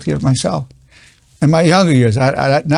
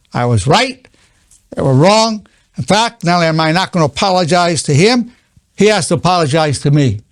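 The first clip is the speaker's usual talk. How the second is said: stubborn self-righteous; 3 semitones higher than usual. Retold or imitated. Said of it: "many people can't do that".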